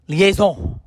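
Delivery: hammy French pronunciation of the word; bad French accent. Comedian repeating a French series title, bad French accent. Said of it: "talking in a bad French accent".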